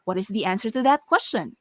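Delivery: "question" falling at the end after a lifted "that"; varied intonation. Shown as a demonstration. Teacher showing learners how to vary a statement, varied intonation. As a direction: lift "that", then let "question" fall. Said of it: "vary that statement using different intonations".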